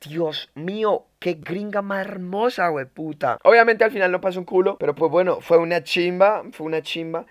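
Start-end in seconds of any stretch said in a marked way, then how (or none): 0.1-3.4 awestruck. Acted. Acts out awe at her beauty.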